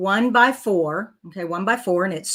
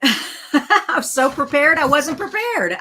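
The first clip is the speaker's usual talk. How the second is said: slow, laughing self-mockery; 7 semitones higher, 6 dB louder, slower than usual. Real, not acted. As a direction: laugh at yourself while saying it. Laughs at own mistake.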